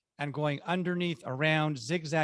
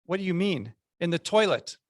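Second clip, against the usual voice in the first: lightly mocked fatherly disbelief, more order than question; mild retold disgust; 3 semitones higher, 3 dB louder than usual. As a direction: imitate a disgusted dad, slightly raised. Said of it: "had this look of disgust and says".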